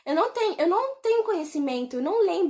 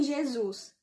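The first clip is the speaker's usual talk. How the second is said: much softer anxious plea; hushed worried question; 6 dB quieter than usual. Retold or imitated. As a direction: ask it gently, frightened by what you see. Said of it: "olhei pra ele e falei assim".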